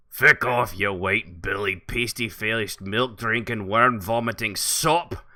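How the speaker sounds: loud snarling insult tirade; gruff angry warrior. Acted. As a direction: bark it like a furious brute. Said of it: "here comes Bargnar".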